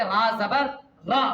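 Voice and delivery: short quick ra. Shown as a demonstration. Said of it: "जल्दी में पढ़ेंगे".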